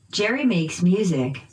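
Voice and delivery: "Jerry" and "music" stressed by pitch; noun stress. Shown as a demonstration. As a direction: lift "Jerry" and "music", dip on "makes". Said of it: "using pitch change".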